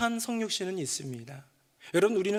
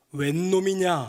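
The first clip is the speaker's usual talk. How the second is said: put-on loud, old-fashioned period-drama delivery; 2 semitones lower, 5 dB louder than usual. A husband retells his wife calling to him from the kitchen, historical drama tone. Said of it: "사극 톤으로 웬 놈이냐 그런 거예요".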